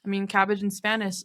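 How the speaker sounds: talking around a wad of gum; chewing gum. Real, not acted. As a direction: gum in the mouth while talking. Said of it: "I can't talk when I have gum in my mouth".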